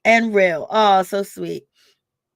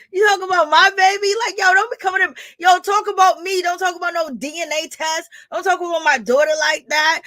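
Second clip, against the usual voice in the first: mock angry; 6 semitones higher than usual. Voicing confrontation at Wanda.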